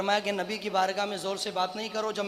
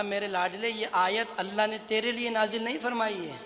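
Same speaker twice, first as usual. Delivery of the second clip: soft, hushed reassurance; gentle consoling; 3 dB quieter than usual. Retold or imitated. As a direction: comfort a dear follower quietly. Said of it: "अपने साहबी को तसल्ली दी".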